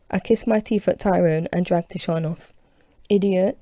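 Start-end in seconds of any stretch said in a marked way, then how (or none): 3.1-3.6 shout back. Acted. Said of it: "turns and shouts back".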